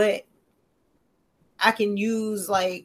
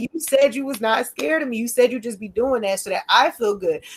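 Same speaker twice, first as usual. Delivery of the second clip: louder, higher mocking scold; mock scolding, a bit higher and louder; teasing taunt; 5 semitones higher, 5 dB louder than usual. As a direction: needle her for faking the tears. Mother taunting crying daughter.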